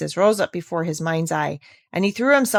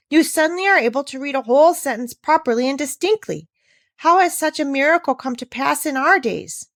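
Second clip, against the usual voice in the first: astonished teacher; 5 semitones higher than usual. Acted.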